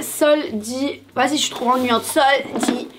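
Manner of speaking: halting, broken-up syllables; choppy speech. Real, not acted. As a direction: say it in jerky chunks. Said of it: "Pourquoi je parle en saccadé encore?".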